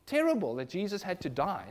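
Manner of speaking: softly imitated regret; mock lament. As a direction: say it softly, as someone else's regret. Voices view, then corrects it.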